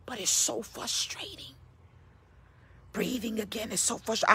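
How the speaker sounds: soft, weary retold complaint; imitating weary patient. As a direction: voice a frustrated patient softly, struggling for breath. Sick man's weary complaint, retold.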